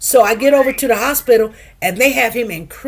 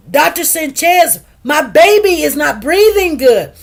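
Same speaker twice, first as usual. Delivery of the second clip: raised, insistent appeal to a doctor; emphatic retelling of a worried parent's alarm; urgent retold plea; 3 semitones higher, 4 dB louder than usual. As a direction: make the doctor take this seriously.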